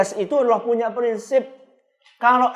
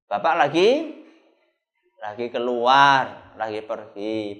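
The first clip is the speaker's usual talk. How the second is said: father instructing; 6 semitones lower, slower than usual. Acted. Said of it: "bapak-bapak yang melakukan".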